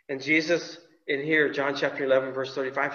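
ordinary delivery

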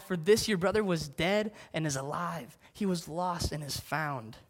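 slow, tender fatherly reassurance; loving father. Acted. Father reassuring his older son, slow, tender and loving. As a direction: speak gently to the angry son, full of joy. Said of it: "the tone of just love and joy".

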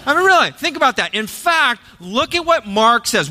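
high, fast, eager burst; excited aside. Real, not acted. Preacher wondering if Jesus walked on water for fun, excited. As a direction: rush in with delight. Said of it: "excited aside".

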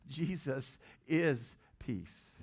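"is" drawn out slowly and set apart; slow, deliberate weight on "is"; stress on IS. Real, not acted. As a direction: lean long on "is", then land "peace". Corrects "represents" to "is.

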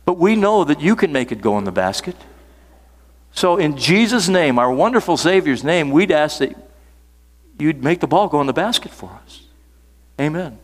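retold huddle prayer with lilting phrases. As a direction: pray it aloud, lifted and rolling. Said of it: "up, he prayed".

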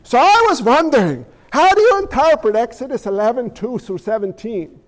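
mock Jesus quiz. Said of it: "you have Yahweh ask you Bible questions".

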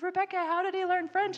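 very high, loud, astonished; amazed teachers. Retold or imitated. Language teachers asking how Chris learned French, astonished. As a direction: ask in disbelief. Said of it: "they said".

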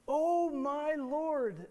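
high, loud, slow mock reverence; hammed-up grovelling prayer; mock pious flattery. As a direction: lay the flattery on thick. Moses flattering God.

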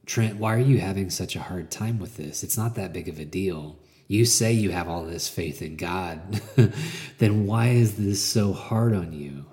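lightly voiced mocking inner critic; gremlin's voice. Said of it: "This is my gremlin's voice".

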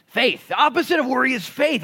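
loud, high proclamation; emphatic answer. Real, not acted. Preacher proclaiming the answer to the congregation, loud. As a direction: hammer the key word home. Preacher driving home point.

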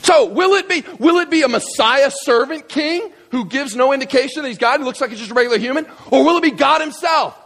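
high-pitched rousing question, quickening midway; climactic preaching. Acted. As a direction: build to a shouted final question. Preaches closing question at full force.

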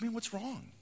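mock self-pitying lament; anxious young man. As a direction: play the gloomy kid who feels condemned. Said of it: "mumble to himself all the time".

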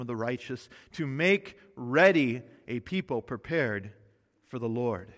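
measured, solemn Bible reading; scripture reading. Acted. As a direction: read the passage like a pulpit lesson. Reads Bible passage aloud.

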